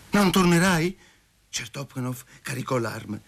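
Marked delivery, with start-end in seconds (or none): 0.1-1.0 high, incredulous challenge; threatening question. A narrator's reading. Lover loading his pistol challenges Masha, threatening. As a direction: challenge her with raised pitch.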